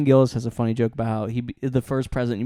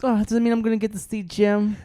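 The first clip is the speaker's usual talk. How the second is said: put-on higher Brooklyn mom accent, eager and doting; 6 semitones higher than usual. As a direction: play a Brooklyn mother excited to see Jim. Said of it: "making her sound like a woman from Brooklyn".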